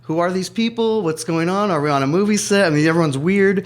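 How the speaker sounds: mock the shock of new arrivals; excited disbelief. Host recalling his family's first shock in Los Angeles, excited and bewildered.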